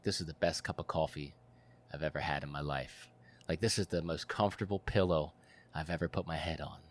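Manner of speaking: a hint of quiet gratitude; grateful awe. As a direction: savor every word. Savoring life after near death.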